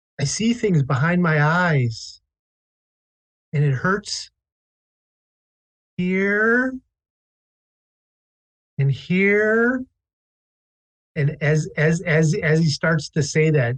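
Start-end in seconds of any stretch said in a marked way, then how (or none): 0.2-9.9 put-on child character voice, boy, drawn out. Narrator voicing a boy answering Silva up close: soft voice. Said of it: "the boy answer in a in like a soft voice".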